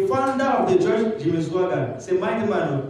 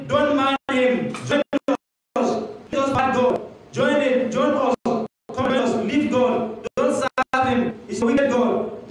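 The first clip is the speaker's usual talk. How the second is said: a lightly voiced Satan, higher and urging; tempting Satan; 6 semitones higher than usual. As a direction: coax him away from God. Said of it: "A voice of Satan say".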